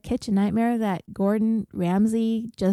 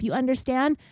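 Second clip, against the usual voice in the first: restrained, aggressive rising challenge; mildly confrontational retold question; retold verbal aggression; 3 semitones higher than usual. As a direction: imitate a curt demand at normal volume. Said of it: "starts getting verbally aggressive".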